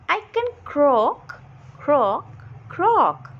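hammed-up little frog croak. Frog Tippy introducing itself, croaking. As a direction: croak croak in a lightly voiced frog.

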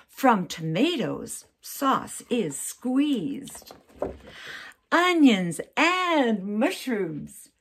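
reading aloud. Shown as a demonstration. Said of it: "I'm just gonna read it".

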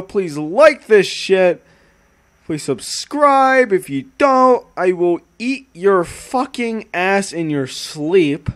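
slow, drawn-out threat; mock menace. Streamer demanding likes in a slow mock threat. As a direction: threaten playfully, slowly.

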